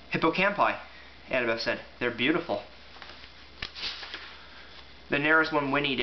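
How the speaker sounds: lively storybook narration with voiced quotes; dramatic reading. A narrator's reading. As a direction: read it aloud like a bedtime chapter.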